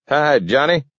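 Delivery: put-on high-pitched old-timer greeting, lightly puffed; puffing old man. A narrator's reading. Gramp skids to a stop and greets Johnny, puffing. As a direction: greet him high and a little winded. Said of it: "puffed Gramp".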